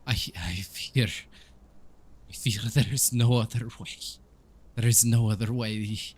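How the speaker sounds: lightly acted tearful priest; halting, accented, as if holding back sobs; weeping Donovich. Priest fearing his son must die, mildly weepy. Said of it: "weeping, and he says".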